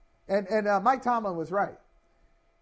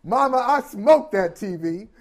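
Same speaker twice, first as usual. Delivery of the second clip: Samuel Jackson impression; 7 dB louder, slower than usual. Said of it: "said Samuel Jackson".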